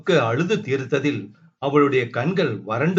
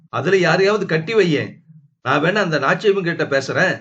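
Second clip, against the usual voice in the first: raised, fast mocking comeback; sarcastic retort; 3 semitones higher, 3 dB louder, faster than usual. Husband mocks his wife's greedy family, fast and raised. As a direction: hit back with sarcasm. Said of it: "கொதித்து போனாள் அபிதா".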